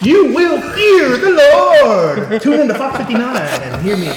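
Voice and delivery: a lightly hammed-up televangelist pitching his channel; mock televangelist. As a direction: ham up a fire-and-brimstone TV preacher.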